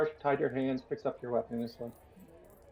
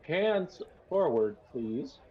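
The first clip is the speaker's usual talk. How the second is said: drawn-out, higher command; sheriff's mild yell; 4 semitones higher, much slower than usual. Acted. Sheriff ordering a prisoner to be tied, restrained yell. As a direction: call it out slowly, half yelling. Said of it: "Sheriff yells out".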